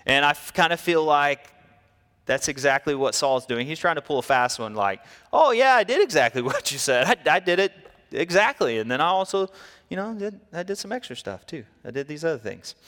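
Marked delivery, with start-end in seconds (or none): 5.3-12.8 higher, eager, half-laughing excuses; sheepish Saul excuse. Acted. Saul dodging Samuel with eager excuses. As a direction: talk fast to cover the lie. Saul pulling a fast one.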